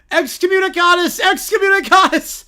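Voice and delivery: loud, high chanted curse; hammed-up excommunication yell; mock Latin curse. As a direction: hurl it like a spell.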